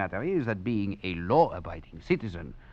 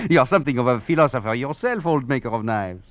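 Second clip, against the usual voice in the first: louder and quicker with a laugh in it; laughing admiration; 3 semitones higher, 6 dB louder than usual. Acted. Duplessis laughs at the old knife maker, loud and quick. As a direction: laugh it out, tickled by the joke.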